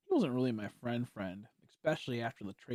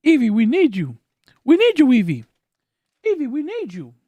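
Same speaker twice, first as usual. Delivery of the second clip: loud, high dramatic plea; loud high mock heroic call; 12 semitones higher, 17 dB louder than usual. Chanting plea to Evie.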